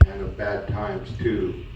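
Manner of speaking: measured cowboy-poem recital, each phrase opening with a lift; poem recitation. Acted. Son recites his mother's poem about her childhood home, measured recital. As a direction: recite it line by line, settling at each phrase end.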